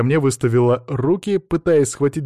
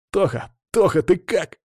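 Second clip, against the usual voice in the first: higher-pitched anxious call to a friend; worried boy; 8 semitones higher than usual. A narrator's reading. Boy checks on his fallen friend, worried. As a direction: call out with worry in a raised pitch. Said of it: "волновался Саня".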